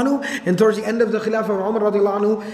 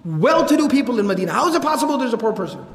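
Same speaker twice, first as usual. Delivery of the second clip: losing it; 5 semitones higher than usual. Retold or imitated. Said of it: "he would just lose it".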